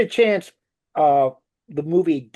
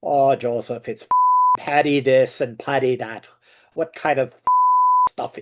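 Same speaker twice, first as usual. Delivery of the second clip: put-on father's Irish accent; 3 dB louder than usual. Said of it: "try to do my father's Irish accent".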